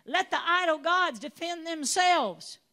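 loud, firm father's rebuttal; father defending son. Acted. Father speaking up to the angry townspeople, loud and firm. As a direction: stand up and silence the crowd. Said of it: "the dad stood up and said".

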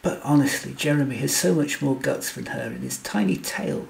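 a touch of an angry bark; mild bark. Acted. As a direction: bark it out, a little sharper. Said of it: "Oberon barked".

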